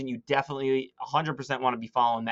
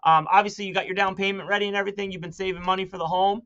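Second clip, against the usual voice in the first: light, higher, breezy reassurance; nonchalant; 5 semitones higher than usual. Shown as a demonstration. Agent to buyer setting a showing, upbeat and nonchalant. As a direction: tuck the money question in casually, upbeat. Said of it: "you wanna say it very nonchalantly".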